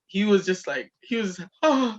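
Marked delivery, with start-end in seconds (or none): 1.6-2.0 high mock panic; comic panicked wail; freaking out. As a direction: imitate someone freaking out, pitched way up. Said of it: "he was just freaking out".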